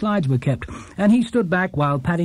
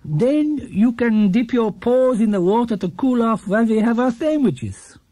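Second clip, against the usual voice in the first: lightly voiced kindly old shopkeeper, higher, last words slowed and breathy; a gentle old man offering a treat, a touch higher; Mister Gruber's voice; 7 semitones higher than usual. A narrator's reading.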